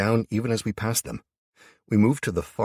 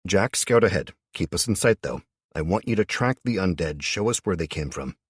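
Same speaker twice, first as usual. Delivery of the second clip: loud, firm commands to a scout; commanding orders; 2 semitones higher, 3 dB louder than usual. Acted. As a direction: bark out orders to the troops. Giving orders to a companion.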